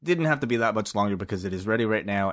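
ordinary talk

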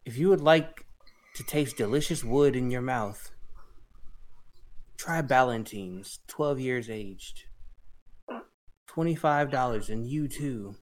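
hammy late-night ad read; mock commercial voice. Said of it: "Take it away, Flacco".

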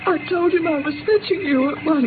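fighting back sobs; crying. Acted. Housekeeper to the doctor, tearfully telling of his face.

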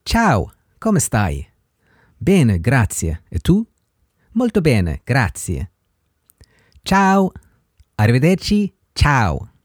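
slow, clear read of the Italian lines; unhurried teacher demo of the greetings; slow model dialogue. Shown as a demonstration. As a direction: model the dialogue slowly for learners. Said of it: "it would sound like this".

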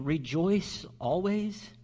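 "Rejoice always?" slow and doubtful, rising on "always"; "rejoice always" as a skeptical echo; incredulous question. Retold or imitated. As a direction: voice the listener who can't believe "always". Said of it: "you may be thinking".

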